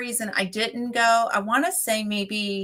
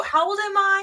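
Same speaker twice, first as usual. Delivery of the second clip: laughing; 12 semitones higher than usual. Retold or imitated. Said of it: "like, go".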